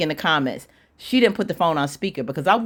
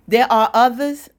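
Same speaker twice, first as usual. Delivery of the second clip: high, louder incredulous question; retold disbelief; 6 semitones higher, 5 dB louder than usual. Shocked woman questioning the other girlfriend, disbelieving. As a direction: act out her stunned question, voice lifting at the end.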